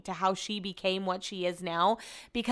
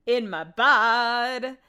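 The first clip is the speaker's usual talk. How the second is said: silly voice; 2 semitones higher, 4 dB louder, much slower than usual. Pretend. Playful repeat, silly voice.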